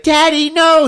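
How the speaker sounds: high, loud plea; child's desperate shout. Retold or imitated. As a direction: cry out to stop your father. Judy screams to stop father.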